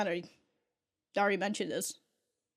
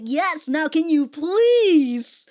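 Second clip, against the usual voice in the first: annoyed Catra; 6 semitones higher, 8 dB louder, much slower than usual. Retold or imitated. Catra annoyed at Adora's gushing.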